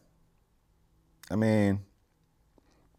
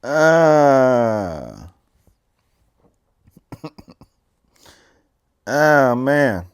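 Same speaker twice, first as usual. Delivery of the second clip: loud laughing gasps; real helpless laughter; laughing hard; 8 semitones higher, 11 dB louder, much slower than usual. Real, not acted. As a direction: crack up and gasp. Host recovering from laughter.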